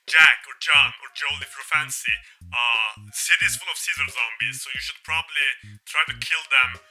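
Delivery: loud, pushy yelling guide; hammed-up shouting radio ally; shouting Atlas. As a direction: bellow it like an overexcited bro on the radio. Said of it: "Atlas is like".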